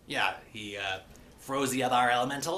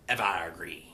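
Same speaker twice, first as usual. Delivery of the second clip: hushed, breathy whisper of the title; 8 semitones lower than usual. Acted. Closing the episode recap, dramatic whispered title. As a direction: whisper the name like a secret reveal. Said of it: "dramatic whispered episode title".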